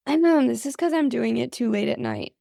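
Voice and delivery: creaky, worn-out voice; vocal fry. Real, not acted. Host explaining her tired fry, creaky and worn. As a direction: sound like it is too late at night. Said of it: "the vocal fry comes out when I'm".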